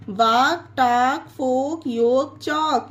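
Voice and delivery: "वाक, टाक, फोक, योग, चौक" with no L before K; "वाक, टाक, फोक, योग, चौक", each ending in K without an L; silent L. Shown as a demonstration. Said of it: "कहीं पर भी एल का उच्चारण नहीं".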